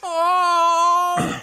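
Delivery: high nasal loud "Oh!"; shrill surprised yelp; Fran Drescher yelp. Acted.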